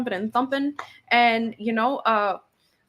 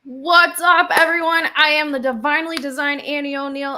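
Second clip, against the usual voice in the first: hyped intro; 3 semitones higher, 5 dB louder than usual. Real, not acted. Ring announcer greeting the podcast audience, big and loud.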